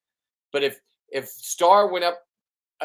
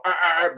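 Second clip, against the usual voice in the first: lobster noise; 3 semitones higher, 4 dB louder than usual. Retold or imitated. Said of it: "I always go".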